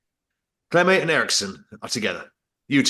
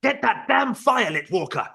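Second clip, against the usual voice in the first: yelling; 7 semitones higher than usual. Acted.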